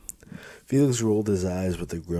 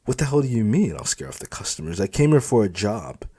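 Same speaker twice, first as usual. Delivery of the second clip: shocked; 3 semitones higher, 4 dB louder than usual. Acted. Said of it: "I say in shock".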